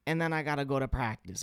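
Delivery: slow, lightly voiced cheerleader listing her duties; a hint of an overworked mom, drawn out; imitating a busy cheerleader. Vlogger mimics the cheerleaders on the Netflix show, slow and lightly voiced. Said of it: "these chicks are like".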